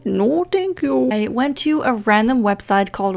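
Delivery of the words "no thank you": slow, higher, emphatic "No thank you."; drawn-out refusal. Real, not acted. Rejecting the game's lag, slow mock disdain.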